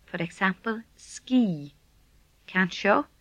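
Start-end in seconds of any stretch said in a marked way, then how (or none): 1.0-1.7 "ski" with a long, held ee; long vowel. Shown as a demonstration. Teacher gives an example to repeat, long-vowelled "ski". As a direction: draw out the end of "ski". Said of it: "long version of this sound".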